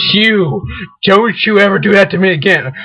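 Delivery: mildly stern mock scolding; lecturing. Scolding a thing just found, mock lecturing. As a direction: tell it off, weighting each warning. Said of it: "I like to lecture them".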